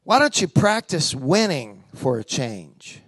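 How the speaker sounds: low, slow, weighty divine question; voice of God. Retold or imitated. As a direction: let God ask it gently but firmly. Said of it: "the Lord said this to me".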